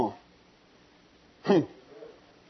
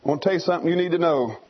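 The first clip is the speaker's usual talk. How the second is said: mother eagle's advice; 4 semitones lower than usual. Retold or imitated. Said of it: "And Mama says".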